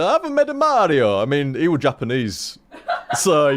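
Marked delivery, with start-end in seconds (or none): 0.0-1.2 high-pitched caricature of a game designer; a mock boast in a higher, put-on voice; Miyamoto. Streamer mocking a Japanese designer's boast, exaggerated impression. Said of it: "wouldn't have actually said it like that".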